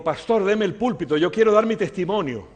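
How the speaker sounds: acting out an insistent request; eager request. Man demands the pulpit.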